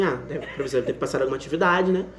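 low, soft innocent cover-up; a hushed, casual pretence; playing it cool. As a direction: say it quietly as if nothing happened. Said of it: "Falei assim".

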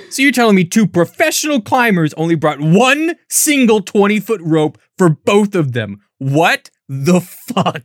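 disbelieving note; incredulous rant. Retold or imitated. Reading her note on the single rope, incredulous. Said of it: "And then I wrote".

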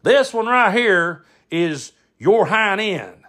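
high, slow, pointed explanation; lecturing uncle Brad. Retold or imitated. Uncle showing cousin a paper wad, pointedly lecturing. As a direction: spell it out as if to a dimwit. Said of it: "and he goes".

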